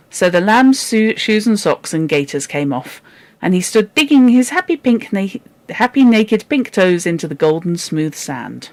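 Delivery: lively storybook reading; animated read-aloud narration; story narration. A narrator's reading. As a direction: tell it like a bedtime tale.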